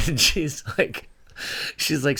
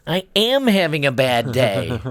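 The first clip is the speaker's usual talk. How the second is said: put-on teary kid; 3 semitones higher, 4 dB louder than usual. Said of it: "he got a little bit teary-eyed".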